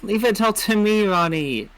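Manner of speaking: lightly put-on French accent; a hint of French in an acted vow. Partner swearing to protect Ronnie, in a mild French accent. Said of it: "Don't know why I'm doing a French accent".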